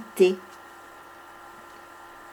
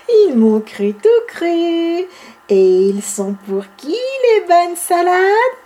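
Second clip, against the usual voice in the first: gleeful; 5 semitones higher than usual. Acted. Bibi gloats after trick.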